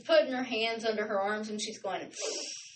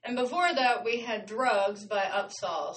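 with hiccups. Real, not acted. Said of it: "I got the hiccups".

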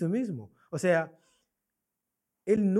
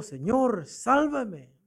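higher-pitched imitated plea for rescue; retold cry for help; 6 semitones higher, much slower than usual. Peter sinking, calling to Christ to save him, mock cry for help. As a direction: call out as Peter would, half-shouted. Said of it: "Pedro le grita a Cristo diciendo".

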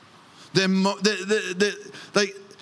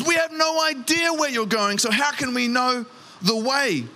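panicked Thomas; 5 semitones higher than usual. Acted. Thomas voiced panicking in retelling.

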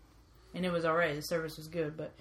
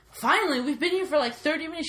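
sarcastic; 4 semitones higher than usual. Retold or imitated.

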